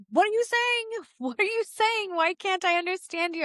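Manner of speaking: high, exasperated cry to unseen voices; frustrated pleading. Retold or imitated. Young medium begging whispering spirits, frustrated and high. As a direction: plead with the spirits, a laugh breaking in. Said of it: "And I was like".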